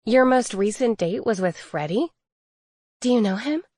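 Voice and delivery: mock surprise, question lilting up; feigned surprise. Emma faking surprise to the fairy about Freddy, mock surprise. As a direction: pretend to be caught off guard. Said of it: "I feigned surprise".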